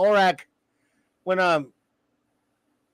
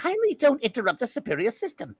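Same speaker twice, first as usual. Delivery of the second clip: imitating Orac; 3 semitones higher, 4 dB quieter than usual. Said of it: "I can't do Orac".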